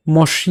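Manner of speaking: "মস্য" with a retroflex sh, mosh-iyo. Shown as a demonstration. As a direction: say "মস্য" with sh, tongue curled back. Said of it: "যদি এখানে মূর্ধন্য স থাকতো".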